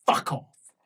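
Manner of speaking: hissed in a whisper. Acted. Countess dismissing the ambassador, whispered. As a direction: drop to a bare whisper for the final blow.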